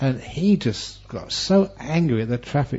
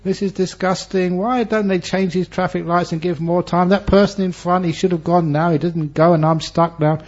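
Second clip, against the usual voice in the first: impatient grumble; 5 semitones higher than usual. Retold or imitated. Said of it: "Instead of getting angry".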